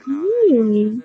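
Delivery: drawn-out hmm, rising then falling; mock thoughtful hum; pondering hmm. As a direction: act out mulling an idea with a long hum. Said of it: "I was like".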